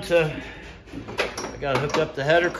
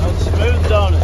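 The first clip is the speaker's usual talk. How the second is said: loud, raised voice over a running motor; shouting over engine; 10 dB louder than usual. Real, not acted. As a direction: call it out over the engine noise.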